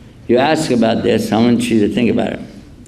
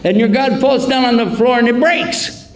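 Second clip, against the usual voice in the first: much higher, mock-worried pleading; mock serious; 11 semitones higher than usual. Teasing the driver, mock worried and high. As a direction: play anxious to make the sheikh laugh. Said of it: "So I'm real serious".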